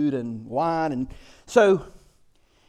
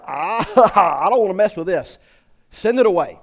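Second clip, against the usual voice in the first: freaked-out David; 6 dB louder than usual. Retold or imitated. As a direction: panicky cry, laughing into it. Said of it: "He like".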